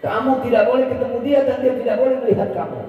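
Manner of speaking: high, fast warning; anxious friend pleading fast and high; urgent friend. Acted. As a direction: hurry to stop him going. Friend urgently forbids meeting.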